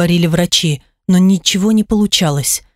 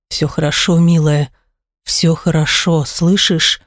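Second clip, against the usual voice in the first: lower, gentle and soothing; reassuring husband; 3 semitones lower than usual. Acted. Husband comforting crying wife.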